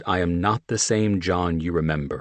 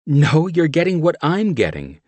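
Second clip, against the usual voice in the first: higher, louder playful woman; Mickey voiced; 10 semitones higher, 6 dB louder than usual. A narrator's reading. Teasing John over what he eats, woman's voice. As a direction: tease him as Mickey.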